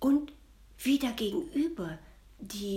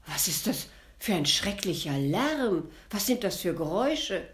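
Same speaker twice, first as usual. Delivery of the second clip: alarmed, a touch louder call; startled cry; 4 dB louder than usual. Acted. Prince woken by cracking noises, calling out startled. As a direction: jolt awake and call out. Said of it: "erschrocken auffuhr und rief".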